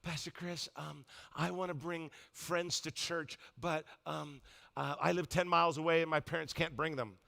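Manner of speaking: soft, hesitant mimic of a shy teen; hushed, halting shy teenager; shy girl's voice. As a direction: imitate a timid girl asking quietly. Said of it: "she's the shyest girl".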